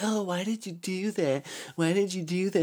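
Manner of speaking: high, whiny mock nurse voice. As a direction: parody a scolding nurse. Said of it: "first nurse was like".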